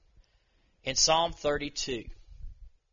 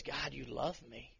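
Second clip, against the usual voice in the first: awed gratitude. Retold or imitated. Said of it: "His response was".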